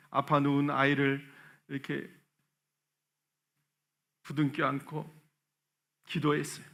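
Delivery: ordinary delivery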